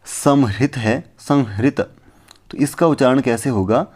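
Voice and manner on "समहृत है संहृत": समहृत drawn out slowly, then संहृत said quickly; careful Sanskrit pronunciation demo; slow example word. Shown as a demonstration. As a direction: spell out समहृत syllable by syllable. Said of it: "जैसे कि".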